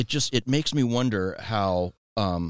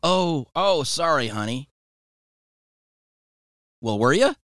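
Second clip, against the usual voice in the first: higher grandmotherly apology; lightly voiced grandma, pitched up; imitated grandma; 8 semitones higher, 3 dB louder than usual. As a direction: imitate grandma apologizing, then prying after a pause. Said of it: "And she goes".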